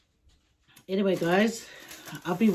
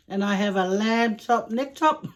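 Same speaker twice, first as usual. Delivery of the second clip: amused. Real, not acted.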